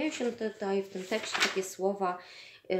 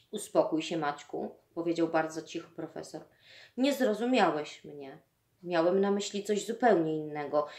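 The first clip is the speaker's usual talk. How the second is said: reading a novel excerpt to the class, acting out the dialogue lightly; story reading. A narrator's reading. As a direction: tell the scene like a class reading, voicing the boy and the teacher. Teacher reads novel excerpt aloud.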